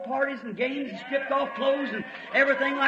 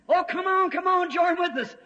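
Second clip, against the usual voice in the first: high, sweet wheedling call; coaxing chicken voice; 5 semitones higher than usual. Acted. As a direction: coax him over to join.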